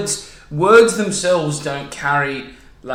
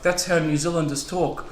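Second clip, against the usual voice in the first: New Zealand accent; 5 dB quieter than usual. Shown as a demonstration. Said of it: "talking in a New Zealand accent".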